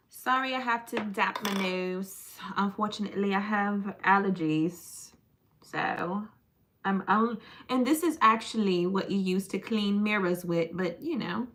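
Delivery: mock-proper English accent; playfully refined English accent. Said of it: "That's a proper English accent".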